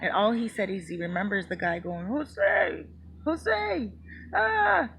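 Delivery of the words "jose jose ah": high-pitched mock scream of his name; retold scream. Friend falling into concrete, retold as a high mock scream. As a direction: imitate a man yelling his name as he falls. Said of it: "and screaming".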